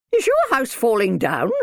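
high, loud question; stern minder, demanding. A narrator's reading. Minder reacts to the attic rumble, demanding.

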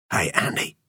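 hushed, whispered greeting. A narrator's reading. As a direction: whisper it to a friend. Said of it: "Wade whispered".

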